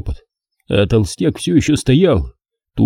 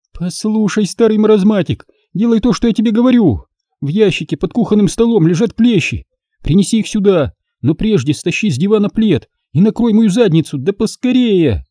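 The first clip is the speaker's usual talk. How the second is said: higher, impatient commanding daughter; bossy scolding; 10 semitones higher than usual. Acted. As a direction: order him about sharply. Daughter orders father.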